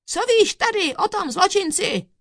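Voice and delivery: high, loud questioning; judge's loud demand; shouting. A narrator's reading. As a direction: fire the question at the witness. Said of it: "křikl soudce".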